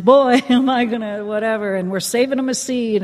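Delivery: put-on laughing through the old family joke; joking with a laugh. Retelling the family joke about her brother, laughing. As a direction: let a laugh break into the joke.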